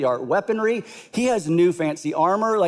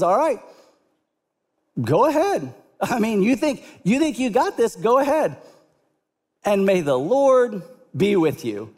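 higher, mock-sincere send-off; dismissive king; 4 semitones higher than usual. Saul brushing off the cocky teen, mock-sincere. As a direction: wave him off with fake blessing.

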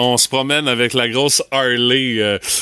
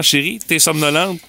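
questioning rise. Retold or imitated. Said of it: "moi, ma blonde, c'est vraiment".

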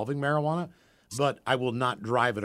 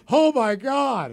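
stoned laughing; 12 semitones higher, 8 dB louder, much slower than usual. Retold or imitated. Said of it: "she's laughing so hard that she's crying".

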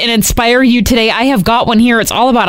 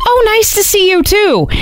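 Sharon voice; 10 semitones higher than usual. Retold or imitated. Sharon answers Whitney.

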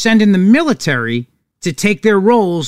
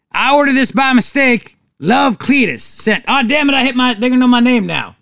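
hammed-up Southern yokel, pitched up; bad Southern accent; 4 semitones higher than usual. Host voicing Cletus botching an anonymous message, mock Southern accent. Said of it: "Southern accents, which is why that accent".

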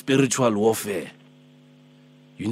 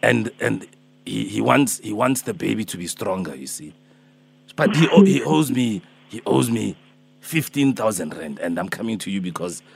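put-on Alpheus, old man. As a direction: play a gentle old healer calling early, only a hint of age. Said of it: "I'm Alpheus, I'm Alpheus".

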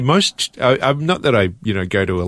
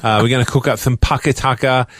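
Jamie Oliver. Retold or imitated. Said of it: "Jamie Oliver".

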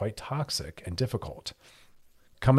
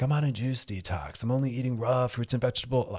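West Coast stereotype voice, pitched a little up; 3 semitones higher than usual. Acted. Host mocking people on juice detoxes, obnoxious West Coast voice. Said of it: "West Coast stereotypical voice".

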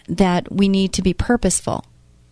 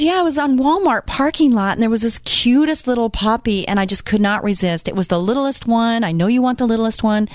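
gushing friend; 4 semitones higher than usual. Retold or imitated. Voices friend gushing about puppy.

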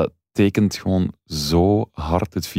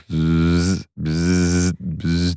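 robot buzzing; much slower than usual. Retold or imitated. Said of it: "alsof er een robot of zo richting de deur wandelt".

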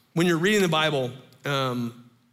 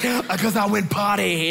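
put-on higher-pitched little-kid voice; imitated three-year-old; 4 semitones higher, 3 dB louder than usual. Three-year-old explaining to startled parent, imitated child voice. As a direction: answer like a small child.

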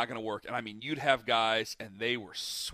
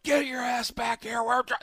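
retold yell; 9 semitones higher than usual. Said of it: "we would be yelling at him".

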